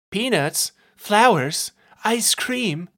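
lightly voiced clown vendor; vendor call. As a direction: hawk snacks like a clown seller. Clown woman sells from cart.

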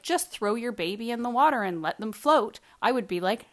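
walk out on the instructor, loudly; mock firm refusal. Refusing the swim instructor, loud and mock firm.

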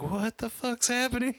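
very high, baffled squeal of words; incredulous reaction. Retold or imitated. Retelling reaction to a fake-looking film scene, incredulous. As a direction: pitch it way up in mock disbelief. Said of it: "I was like".

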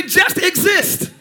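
slow call-out. Acted. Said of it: "Look at your neighbor and say".

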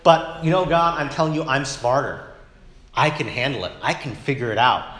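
mock know-it-all talking back to God; a smug hint of "I know better"; lightly voiced proud believer; arrogant attitude. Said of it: "It's like".

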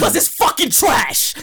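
slow, emphatic shout; shouting match. Real, not acted. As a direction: belt it out dismissively. Heated argument over a rapper's albums.

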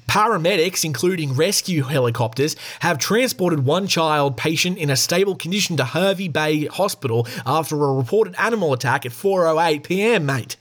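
broad, hammed-up Australian news read; over-the-top Australian accent. Shown as a demonstration. Host reading an ambulance tweet aloud, hammed-up Australian accent. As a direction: lay the Australian accent on thick, pitch lifted. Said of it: "I'll go way over the top for it".

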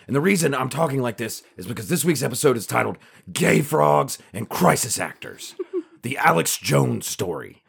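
a mild take on Alex Jones's intense podcast-host delivery; Alex Jones impression. Podcast host opens the show as Alex Jones, lightly imitated. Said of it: "that voice I was just doing is how he presents everything".

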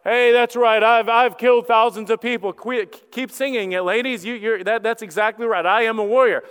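puffed-up, mock-pompous bragging; pompous boasting. Pompous Saul basking in the women's singing, boastful. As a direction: brag loudly like a self-satisfied warrior king. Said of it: "this dude that's pompous and was like".

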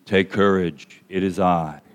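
low, soft, serene voice; hushed, unruffled reassurance; calm and serene. Acted. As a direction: say it very calmly, low and quiet. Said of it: "very calmly and serenely says".

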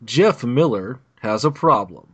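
slow, dramatic trailer announcer; movie trailer voice. Shown as a demonstration. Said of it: "I'm gonna try to do my, uh, movie trailer voice thing".

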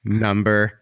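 slow, stretched countdown call; radio countdown announcer. Shown as a demonstration. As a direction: drag it out like a radio host. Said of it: "Say it when I say it".

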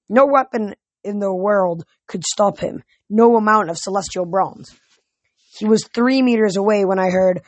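animated audiobook reading; story narration. A narrator's reading. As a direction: tell the adventure with steady energy.

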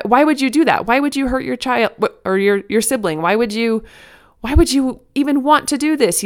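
a hammed-up parent telling off a child; mock scolding. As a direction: act out the urge to yell at the kid who hit. You might want to yell at them.

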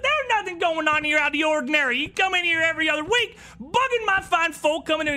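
high, loud furious yelling; angry innkeeper. Acted. Innkeeper shouting at the guards, furious. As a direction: drive the guards out with outrage.

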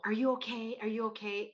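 mildly patronizing mimicry; mock concern, lightly talking down; condescending imitation. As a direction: imitate someone checking on you condescendingly. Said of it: "It's condescending".

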